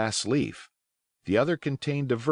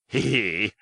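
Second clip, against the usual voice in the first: short knowing pirate laugh; sly chuckle. Acted. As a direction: chuckle slyly to yourself. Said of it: "Silver's sly chuckle".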